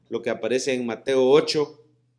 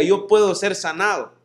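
declaration to repeat; 5 semitones higher, 4 dB louder than usual. Shown as a demonstration. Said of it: "Hágame un favor y diga".

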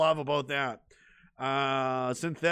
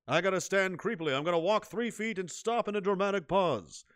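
Robert Stack as dad; 4 dB quieter than usual. Retold or imitated. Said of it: "I am your father, Robert Stack".

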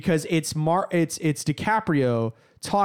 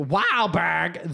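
broad Boston "Wahlberg"; Boston accent. Acted. Naming the most Boston guy ever, Boston accent. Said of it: "the most Boston guy ever".

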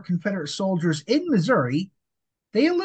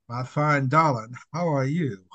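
lightly voiced old-fashioned gentleman; a hint of a smooth flirt; suave charmer; 4 semitones lower than usual. Booth greeting a pretty woman, a touch of mock charm. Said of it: "John would have looked at you and been like".

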